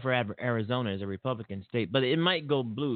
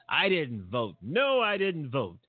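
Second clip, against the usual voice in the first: proud declaration; 3 semitones higher than usual. Retold or imitated. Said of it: "She said proudly".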